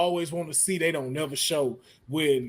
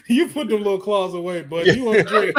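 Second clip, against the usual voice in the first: mock Canadian Wolverine; 4 semitones higher, 4 dB louder than usual.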